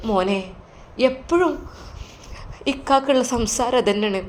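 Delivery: an anxious mother explaining; lightly voiced mother; worried mother. Mother speaks to son.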